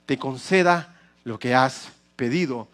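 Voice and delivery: calm, slow send-off with a playful English aside; reassuring Eli. Retold or imitated. Pastor voicing Eli reassuring Ana, calm and slow. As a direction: gently tell her to go in peace. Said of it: "le contestó".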